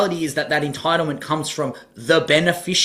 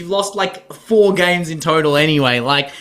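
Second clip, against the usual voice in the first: exasperated disbelief; 6 semitones higher than usual. Real, not acted. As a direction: scold her in disbelief, voice up. Exasperated rant at the player.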